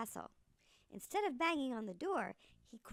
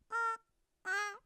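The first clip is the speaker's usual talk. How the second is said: goose honk; 9 semitones higher, 6 dB louder than usual. Acted. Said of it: "The goose honked twice".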